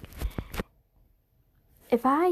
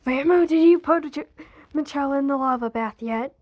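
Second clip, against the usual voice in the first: calling out on the phone. Acted. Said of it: "calls Rambo, being like".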